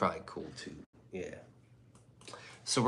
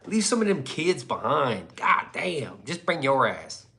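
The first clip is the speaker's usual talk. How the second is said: exasperated; 5 semitones higher, 3 dB louder than usual. Retold or imitated. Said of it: "I'm like".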